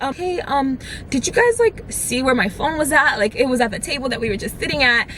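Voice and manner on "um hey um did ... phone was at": hesitant, higher-pitched polite question; timid people-pleaser. Retold or imitated. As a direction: tiptoe into asking, imitating your meek self. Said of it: "I was very much kinda just like".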